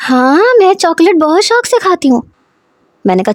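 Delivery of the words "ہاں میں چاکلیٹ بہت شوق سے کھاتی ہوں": put-on a higher, happy child's voice; happily. Girl answering about chocolates, higher and happy. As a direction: chirp it like a delighted little girl. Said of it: "خوشی سے".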